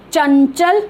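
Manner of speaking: चंचल with a palatal n before the second च; pronunciation demo. Shown as a demonstration. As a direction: model चंचल, nasal made at the palate. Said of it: "इसका उच्चारण थोड़ा सा different".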